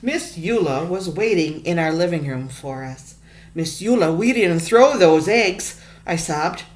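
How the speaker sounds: put-on reading a picture book aloud to kids; story narration. A narrator's reading. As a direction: tell the story to the class, expressive.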